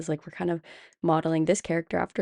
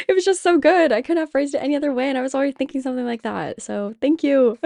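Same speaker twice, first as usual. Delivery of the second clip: high, loud, fast gush of thanks; excited gushing; 8 semitones higher, 6 dB louder, faster than usual. Real, not acted. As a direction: burst out gushing, much higher and louder. Gushing thanks to her co-host.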